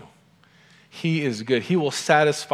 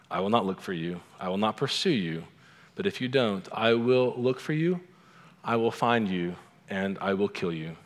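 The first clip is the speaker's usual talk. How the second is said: Liam Neeson; 2 semitones lower than usual. Acted. Father warning his daughter's kidnapper, understated menace. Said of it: "here's Liam Neeson's, uh, quote to this, this kidnapper".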